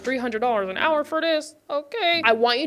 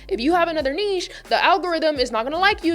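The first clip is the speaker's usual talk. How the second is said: lightly mocked warning, higher pitched; scolding guru; 4 semitones higher, faster than usual. YouTube gurus in her head warn against a second niche, mock scolding. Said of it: "advice of popular YouTube gurus in my head that said".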